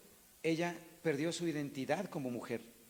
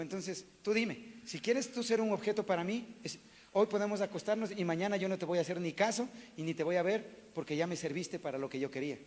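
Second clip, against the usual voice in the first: stern challenge; 4 semitones higher, 4 dB louder than usual. Retold or imitated. Pastor confronts woman bluntly.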